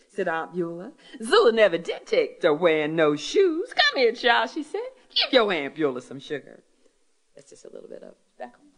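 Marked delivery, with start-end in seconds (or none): 0.1-6.6 lively storyteller reading aloud, pitched up; story reading. Acted. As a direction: read the story to a hall full of listeners. Author reads her story aloud.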